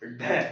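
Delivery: ढ flapped as ढ़, tongue thrown down with breath; forceful aspirated flap. Shown as a demonstration. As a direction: flick the tongue hard on ढ. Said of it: "जोर देकर के पटकना है जीभ को". (ढ ज़ोर से जीभ पटककर)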